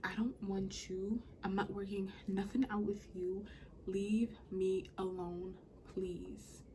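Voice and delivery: slow, word-by-word "Leave me alone, please"; retold all-caps text, each word weighted in "Leave me alone"; all-caps emphasis. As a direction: space out "I don't want you" deliberately. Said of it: "All caps".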